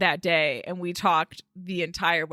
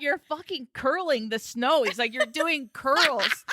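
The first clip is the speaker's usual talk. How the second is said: mock husband; 5 semitones higher, slower than usual.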